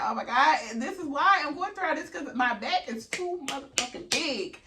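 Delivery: high, loud and laughing; high-voiced oh my God while laughing; laughing realisation. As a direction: blurt it out through laughter. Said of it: "'Cause I'm like".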